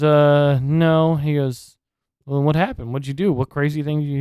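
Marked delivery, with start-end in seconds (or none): 0.0-1.2 higher, louder mock sheepish answer; sheepish Shane. Retelling a cartoon Shane admitting he didn't jump, higher and louder. 2.2-4.2 higher, louder mock interrogation; pressing questioner. Cartoon Dante pressing Shane about his injury, higher and louder.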